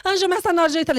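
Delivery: alto e agudo, afobada; aflita. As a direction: grite a hora com pressa. Aflita com o horário. (aflita ao amigo)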